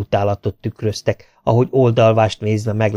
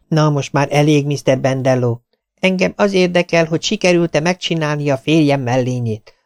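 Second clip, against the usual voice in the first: a hint of an impatient farmer's wife, higher; insistent farmer's wife; 5 semitones higher than usual. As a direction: press him politely but firmly.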